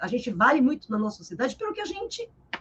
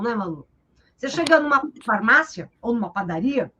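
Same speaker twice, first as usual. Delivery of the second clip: ordinary talk, nothing marked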